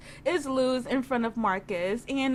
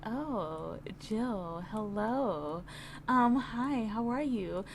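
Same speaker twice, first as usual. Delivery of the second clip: fake sweet greeting; 2 semitones lower, 6 dB quieter, slower than usual.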